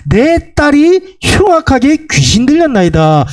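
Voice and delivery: mild, high-pitched plea from scripture; imitated crying out. Woman begging Jesus for her possessed daughter, mildly crying out. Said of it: "소리질러 이르되".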